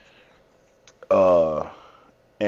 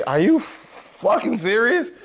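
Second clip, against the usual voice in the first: much higher, slow disbelieving cry; stunned disbelief; 13 semitones higher, slower than usual. Retold or imitated. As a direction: drag it out in disbelief. Spots girlfriend following them.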